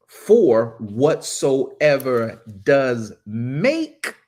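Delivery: slow, deliberate verse reading with weighty key words; scripture reading. A narrator's reading. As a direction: read the verse out slowly, stretching each key word. Reads the verse once more.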